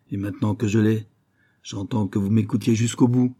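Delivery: firm. Acted. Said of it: "une fermeté de ton".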